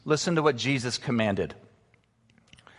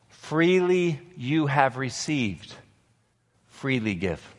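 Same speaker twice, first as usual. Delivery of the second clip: slower, with Freely drawn out and weighted; a hushed, deliberate repeat for the congregation to remember; slow solemn repeat; slower than usual. Shown as a demonstration. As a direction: let Freely you have received sink in slowly. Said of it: "Remember this".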